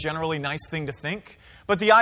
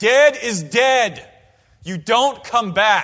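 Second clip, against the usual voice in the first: very slow, gruff, booming, drawn-out yell; 4 semitones higher, 7 dB louder than usual. Retelling a principal scolding kids on a bus drill: imitating Mister Talley screaming. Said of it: "he looked at us and he screamed".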